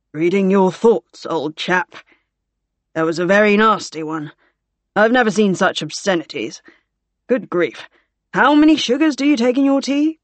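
lightly voiced mock-shocked officer; teasing officer. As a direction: tease an old chum with feigned dismay. Gore teases the anxious patient.

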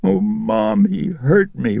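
put-on very high, sniffling little girl; a hurt child telling her mother, sniffling. A narrator's reading.

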